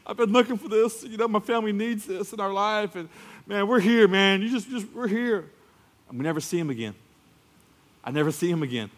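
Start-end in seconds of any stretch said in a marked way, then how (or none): 0.0-5.5 high, mildly gushing newcomer; a lightly voiced thrilled visitor; excited newcomer. Visitor telling the pastor, mildly gushing. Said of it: "they come to me crying".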